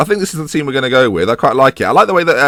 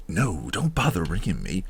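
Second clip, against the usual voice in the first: rebel voice; 5 semitones lower, 11 dB quieter than usual. Pretend. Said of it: "he sounds like a rebel".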